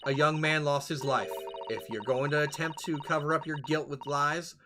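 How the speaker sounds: a hint of a calm, firm judge; lightly voiced stern reminder; lightly voiced stern woman. Pavlova warns sailor against lying, stern. Voicing game characters.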